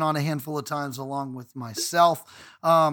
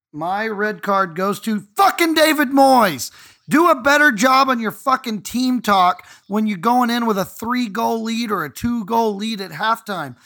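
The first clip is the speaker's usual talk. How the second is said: angry rant; 4 semitones higher, 6 dB louder than usual. Real, not acted. Fan giving his red card to David Moyes, loud furious rant. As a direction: vent your fury at David Moyes, fully loud.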